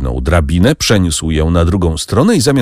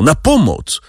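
high desperate cry for help; 8 semitones higher than usual. A narrator's reading. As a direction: call out for help as he's stabbed. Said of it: "krzyknął". (krzyk o pomoc)

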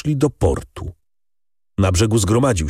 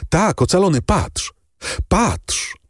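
joyful exclaiming; 9 semitones higher, slower than usual. A narrator's reading. Daughter shows father the purse.

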